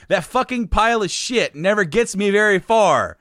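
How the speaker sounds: mock angry reading of song lyrics. Dad angrily reads son the lyrics, mock angry. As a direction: read it like an irate dad. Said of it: "He's, he's angry reading this".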